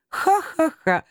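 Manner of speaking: high, spelled-out ha-ha-ha; mocking laughter. Brothers laugh at Мурзилка, mock laughter. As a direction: laugh at the silly one. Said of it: "рассмеялись братья".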